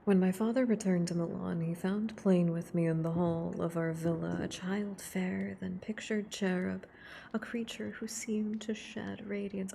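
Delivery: hushed, close reading of a novel. Acted. Streamer reading Frankenstein aloud to ASMR viewers, hushed and close.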